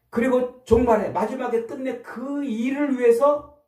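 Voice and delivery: high, loud climactic call; fervent preaching. Real, not acted. Pastor proclaiming the end times to the congregation, high and loud. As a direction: lift the whole room toward the end times.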